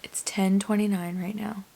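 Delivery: slow unvoiced whisper; late-night hushed update. Real, not acted. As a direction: whisper it so you don't wake anyone.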